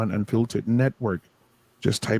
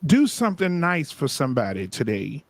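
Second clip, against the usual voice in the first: preacher voice. Acted. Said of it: "Go back to my preacher voice".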